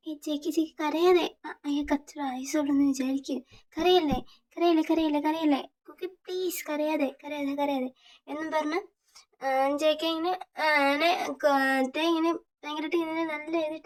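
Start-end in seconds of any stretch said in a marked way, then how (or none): 0.1-7.9 soothing. Acted. Tae hugs and comforts crying JK.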